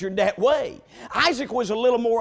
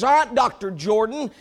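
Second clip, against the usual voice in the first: haughty; 5 dB louder than usual. Retold or imitated. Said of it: "in a haughty voice".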